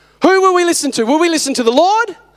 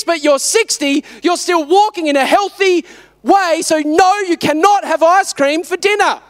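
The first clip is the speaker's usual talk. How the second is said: raised-pitch, emphatic parental lecture; exasperated dad; 3 semitones higher than usual. Retold or imitated. Dad refusing his six-year-old ice cream, exasperated lecture. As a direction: lay down the law, hammering the key words.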